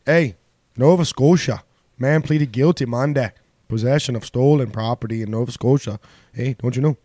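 lightly hammed Canadian accent throughout; mock Canadian accent. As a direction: read the news like a jokey Canadian. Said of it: "Canada voice, eh?".

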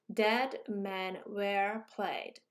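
"dead", "men", "were" and "played" each stressed and held, very slow and drawn out; every word stressed. Shown as a demonstration. Teacher contrasts "dead men were played" with the long sentence, each word a very slow heavy beat. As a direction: give "dead men were played" four equal heavy beats, very slowly. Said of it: "이게 똑같아요".

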